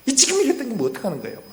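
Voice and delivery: high, loud, fast imitated reproach; angry scolding. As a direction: act out an indignant telling-off. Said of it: "화가 나가지고 순간적으로".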